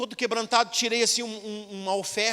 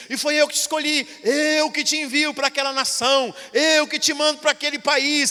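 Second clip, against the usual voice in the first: prophesying; 3 semitones higher, 5 dB louder than usual. Retold or imitated. Prophet voiced in testimony.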